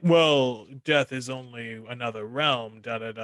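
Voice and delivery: lightly mocked movie line, sinking low; offhand imitation of a solemn pronouncement; movie character quote. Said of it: "the guy's like".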